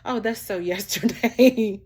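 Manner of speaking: loud mocking brush-off; mock California friend. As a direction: play up the trendy friend, laughing as you say it. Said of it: "So I love about my friends in California".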